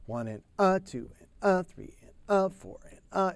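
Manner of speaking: triplet count leaning on the "a"; accent on third note. Shown as a demonstration. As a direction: count triplets, marking each "a". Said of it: "he has that accent on the third note of the triplet".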